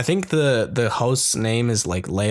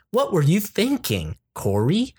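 disappointed mom; 7 semitones higher than usual. Retold or imitated. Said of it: "But here we go".

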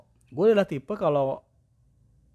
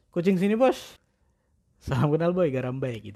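lightly raised cat greeting; 3 semitones higher than usual. Retold or imitated. Man greeting a cat at his new boarding house, lightly raised.

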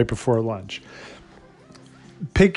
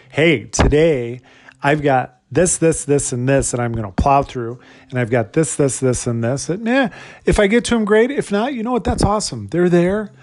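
confident carefree. Pretend. Acted confident carefree inner voice.

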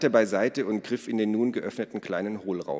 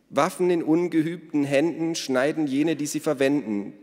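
high, raised quoting voice; reciting a quotation; 7 semitones higher, 5 dB louder than usual. A narrator's reading. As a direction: recite it like a line of scripture. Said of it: "zitierte Ada aus dem Buch". (zitierend vorgetragen)

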